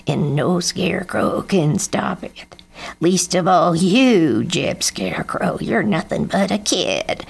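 lightly voiced cawing old crow; the crow taunts Jeb. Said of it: "cawed Grandfather Crow".

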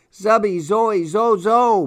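put-on very high squealing baby voice; baby screech. A narrator's reading. Baby Louie squealing at the snow, very high. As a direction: squeal with toddler joy. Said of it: "Baby Louie screeched".

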